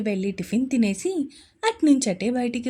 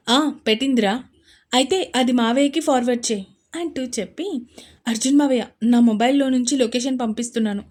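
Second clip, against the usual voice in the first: urgent; 5 dB louder than usual. Acted. Urgent rescue planning.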